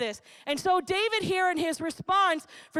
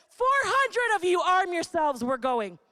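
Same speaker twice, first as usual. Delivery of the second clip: commanding call to arms; 3 semitones higher than usual. Pretend. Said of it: "he calls his army, and he says".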